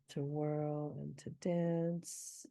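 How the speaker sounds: slow rhythmic poem reading; poem recital. Shown as a demonstration. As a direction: read the line slowly, feeling the beat. Reciting poem line slowly.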